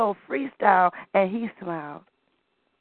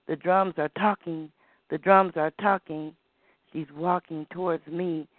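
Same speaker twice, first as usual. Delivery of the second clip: poem recital. Acted. Storyteller recites dance poem to children, rhythmic. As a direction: recite it like a spoken-word piece.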